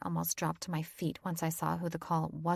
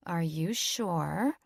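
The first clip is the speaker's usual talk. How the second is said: calm gentle voice; much slower than usual. A narrator's reading. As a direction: reassure her gently. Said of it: "much calmer and less aggressive voice".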